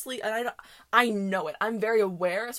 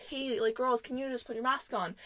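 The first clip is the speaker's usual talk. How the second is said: softly polite request, retold; 3 semitones higher, 6 dB quieter than usual. Older worker asking girls to mask up, very polite. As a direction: imitate a worker's polite, softened ask. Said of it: "very politely comes up to them".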